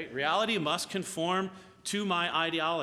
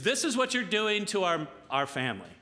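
higher, louder retold reproach; mock a wife's raised-voice accusation; emphatic reproach; 5 semitones higher, 4 dB louder than usual. Wife confronts husband as she smashes china, mildly heated reproach.

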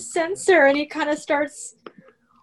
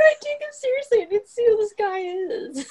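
laughing; 9 semitones higher than usual. Real, not acted.

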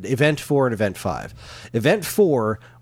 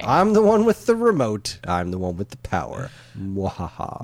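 mock villain boast. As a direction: gloat like a cartoon villain. Mock villain boast over remote.

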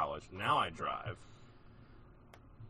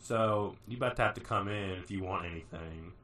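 sassy attitude; 2 semitones higher, 4 dB louder than usual. Retold or imitated. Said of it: "a lot of attitude".

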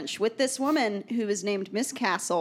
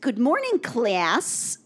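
a hint of a fake French accent from a Chicago teacher; lightly done fake French accent greeting the class; bad French accent; 3 semitones higher, much slower than usual. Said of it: "that's the best impression".

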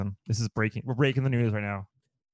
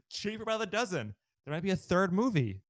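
giggling excitedly; 7 semitones higher than usual. Real, not acted. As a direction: giggle through the news. Giggling over movie news.

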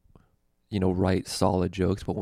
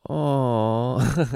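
high, pitying crowd aww; mock sympathetic aww; 5 semitones higher, 4 dB louder than usual. Crowd pitying the roasted comic, mock aww. Canadian hecklers too nice after roast.

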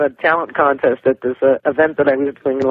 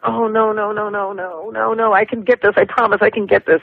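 raised, pleading insistence to the producer; frustrated pleading; 6 semitones higher than usual. Retold or imitated. Singer pleading with her producer not to stop, frustrated. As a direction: beg to keep going, voice lifted and a little strained. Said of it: "just getting very frustrated".

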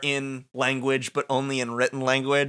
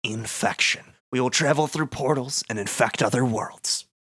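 the darkness. Acted. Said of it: "I can be the darkness".

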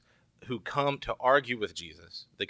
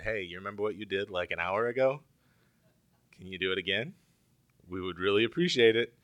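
sheepish hinting request; faster than usual. Retold or imitated. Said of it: "you can hear it in their voice".

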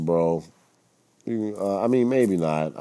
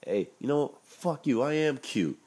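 Bill Cosby; 7 semitones higher, 3 dB quieter than usual. Retold or imitated. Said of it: "Bill Cosby was like".

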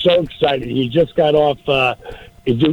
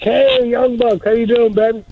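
cheery greeting; 8 semitones higher than usual. Retold or imitated. Calling to cheer him up.

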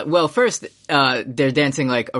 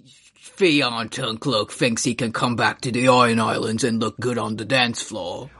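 put-on drifting Ironborn accent; 3 semitones lower than usual. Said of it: "the accent keeps drifting".

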